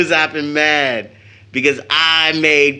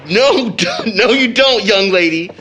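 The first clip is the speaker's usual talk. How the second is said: higher and louder, laughing through the words; laughing protest; 5 semitones higher, 4 dB louder than usual. Acted. Brother laughing as his sister tries to kiss him. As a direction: fend her off while giggling.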